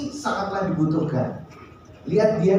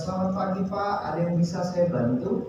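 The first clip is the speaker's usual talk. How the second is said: polite greeting. Retold or imitated. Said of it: "Dia kosakatanya menarik".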